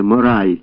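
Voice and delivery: put-on girl hurls the word at the moralizing soldier; stressed last word. A narrator's reading. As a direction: spit "Мораль" like a blow. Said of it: "з особливим наголосом".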